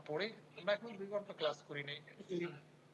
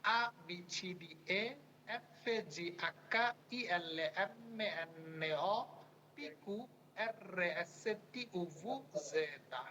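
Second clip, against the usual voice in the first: reciting the Italian alphabet again, letter by letter; alphabet recitation; much slower than usual. Shown as a demonstration. Teacher repeats the alphabet for students to memorize. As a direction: chant each letter in turn for the class to follow. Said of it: "আরেকবার শুনে দিচ্ছি".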